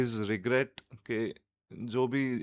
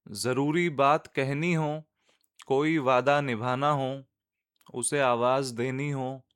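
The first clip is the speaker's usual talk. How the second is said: measured, lilting Urdu verse reading; nazm recitation. Acted. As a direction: recite line by line, letting the refrain settle. (नज़्म सुनाने का अंदाज़)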